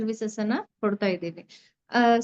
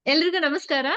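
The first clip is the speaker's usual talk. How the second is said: higher, lightly projected greeting; a bit louder; 5 semitones higher than usual. Real, not acted. Speaker retrying her greeting for the host's sound check, slightly raised voice. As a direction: pitch the greeting up so it carries. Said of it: "ಇನ್ನೂ ಸ್ವಲ್ಪ ಜೋರಾಗಿ ಮಾತಾಡಿದ್ರೆ".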